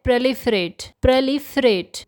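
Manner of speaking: proliferate said clearly as "pro-LIF-er-ate"; correct pronunciation. Shown as a demonstration. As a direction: repeat proliferate slowly. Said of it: "इसका सही pronunciation है".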